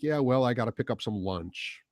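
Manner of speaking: low-pitched, offhand dismissal; lightly mocked nonchalance; mock indifference. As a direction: imitate someone with other things to do. Imitating indifferent people brushing him off.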